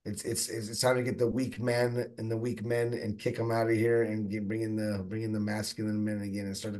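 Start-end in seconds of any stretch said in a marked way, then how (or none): 0.1-0.8 halting, stuttering speech. Real, not acted. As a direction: trip over the words. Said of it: "sorry, I'm stuttering right now".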